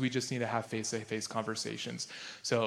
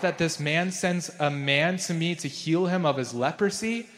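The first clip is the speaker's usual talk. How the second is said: louder, reading the king's outburst; king's outrage; 3 semitones higher, 5 dB louder than usual. Acted. Preacher reading aloud the king's angry protest, raised voice. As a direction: read the furious king's words with force. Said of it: "he tore his clothes and said".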